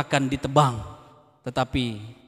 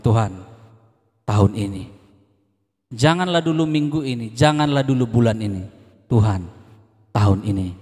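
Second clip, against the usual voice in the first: sincere prayer; 3 semitones lower than usual. Pretend. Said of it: "beranikah engkau berkata sama Tuhan".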